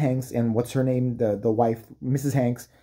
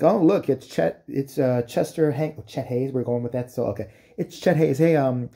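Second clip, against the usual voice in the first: hyped reporter. Retold or imitated. Reporter greeting him at Oscars.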